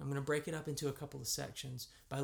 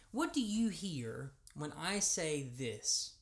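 ordinary talk, nothing marked

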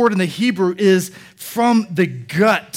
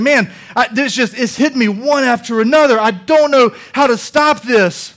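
raised, exasperated voice of anguish; impassioned outburst, as if hit repeatedly; 4 semitones higher, 4 dB louder than usual. Retold or imitated. Suffering man who can't stop what's hitting him, anguished. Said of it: "we see the anguish of this man".

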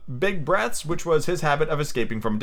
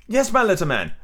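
higher-pitched, mildly nervous reply; anxious; 5 semitones higher than usual. Acted. Slightly playing doctor for Peter, anxious. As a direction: answer with a touch of unease. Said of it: "anxiously replied Slightly".

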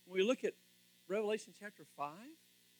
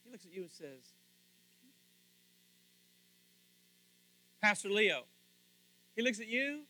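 long suspenseful gaps after "says" and "Pastor Leo"; dramatic pause. Shown as a demonstration. Preacher addressing Pastor Leo, "he looks at you", with dramatic pauses. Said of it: "Don't you love the dramatic pause".

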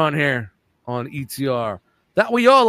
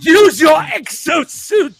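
playful shout; 9 semitones higher, 6 dB louder, much slower than usual. Pretend. Cheering toy play.

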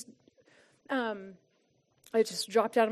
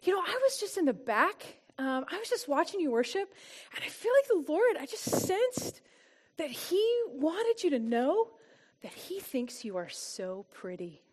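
a church friend gently passing on a word from God; gentle tender message; 3 semitones higher, 5 dB quieter than usual. Retold or imitated. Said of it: "and she says".

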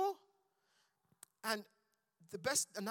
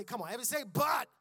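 rally the room, louder and louder; calling out; 2 semitones higher, 4 dB louder, much faster than usual. Real, not acted. Preacher rallying the congregation to shout but. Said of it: "I say".

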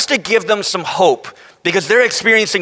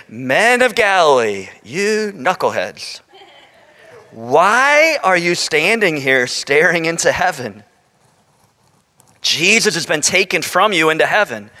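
lower, slow, weary scolding of knuckleheads; exasperated angels; 5 semitones lower than usual. Retold or imitated. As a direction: sigh it out like tired angels chiding. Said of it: "I can just imagine the tone in which they said".

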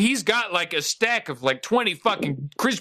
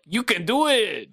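higher, slow hammed-up cheer; a light mock cheer; Rob Schneider impression; 6 semitones higher, slower than usual. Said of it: "give me just one little, like".

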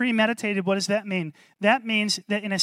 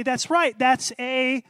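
knowing observer; 5 semitones higher, 4 dB louder, slower than usual. Pretend. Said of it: "the person following you around would say".

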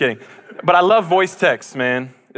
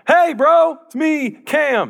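excited greeting; 12 semitones higher, much slower than usual. Acted. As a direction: shout the greeting like a happy buddy. Acting out his voice text.

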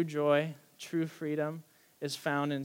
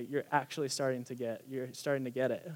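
softer, tender encouragement; kind God voice; 3 semitones lower, 5 dB quieter than usual. Retold or imitated. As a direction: gently reassure a struggling child. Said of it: "who is good, who is kind".

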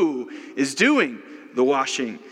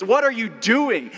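much higher, startled question; shocked what; 8 semitones higher than usual. Retold or imitated. Host finding the Queen scrubbing his toilets, shocked. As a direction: gasp it out as if catching the Queen scrubbing.

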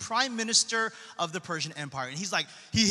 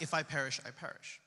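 hushed resolve; 6 semitones lower, 9 dB quieter than usual. Acted. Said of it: "Esther's like".

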